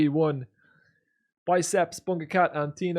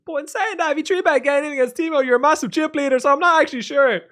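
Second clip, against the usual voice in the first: high, loud rush of second thoughts; worked-up reasoning; 10 semitones higher, 6 dB louder than usual. Real, not acted. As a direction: argue it excitedly, pitched way up. Argues himself into doubt.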